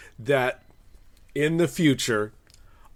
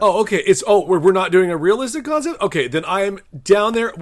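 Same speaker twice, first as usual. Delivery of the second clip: louder, higher, mock-offended huff; annoyed game unit; 4 semitones higher, 6 dB louder than usual. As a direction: play it indignant, then go all in. Mock offence after being told to quit.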